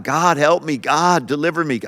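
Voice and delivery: a mild, half-performed cry for help; lifted plea to God, not shouted. Retold or imitated. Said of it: "Cry out to God".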